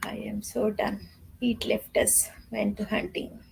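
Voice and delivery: soft tired whisper. Real, not acted. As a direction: breathe the words out.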